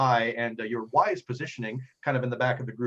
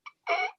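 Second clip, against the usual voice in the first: short choked gasp; cut-off gasp of a man struck; pained choke. Acted. Game master voicing the pirate pierced by an arrow, choked gasp. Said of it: "a contortion".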